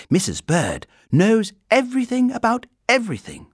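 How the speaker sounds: put-on high, loud child's voice; knowing girl. A narrator's reading. Girl telling the bear about the housekeeper, knowing. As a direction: declare it proudly as a girl.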